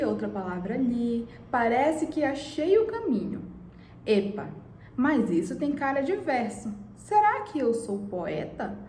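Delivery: reading the poem aloud with feeling. Acted. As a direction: recite it like a poem for the class. Teacher reads a poem aloud.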